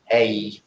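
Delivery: "A" said as a full "ay"; emphatic "ay". Shown as a demonstration. Teacher showing the emphatic indefinite article. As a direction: give the full "ay" sound. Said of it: "If you want to be emphatic, you pronounce a".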